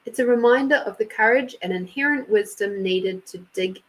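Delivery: measured oracle card reading; reading aloud. Real, not acted. Reader reads Amanda her oracle card, reading aloud. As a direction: read the card's text out evenly, phrase by phrase.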